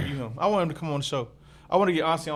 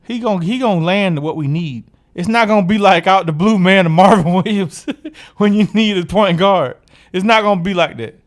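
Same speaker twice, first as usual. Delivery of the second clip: loud, insistent higher voice; emphatic; 5 semitones higher, 6 dB louder than usual. Real, not acted. Cohost defending the GM, loud and insistent. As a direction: hammer the point home.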